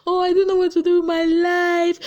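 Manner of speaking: high, loud whiny mock sob; mock crying wail. Mocking Erica crying about her life. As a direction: ham up a crying girl. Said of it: "Erica was crying".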